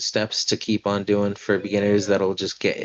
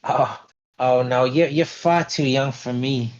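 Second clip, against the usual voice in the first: smirking rebuff; 5 semitones higher, 3 dB louder than usual. Acted. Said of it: "kinda smirks".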